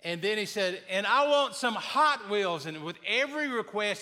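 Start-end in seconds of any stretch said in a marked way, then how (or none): 0.9-2.7 put-on louder child prayer. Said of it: "he was getting louder and louder".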